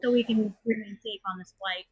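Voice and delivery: firm cabin announcement; flight attendant. Retold or imitated. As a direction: tell passengers to stay buckled. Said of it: "And I'm like".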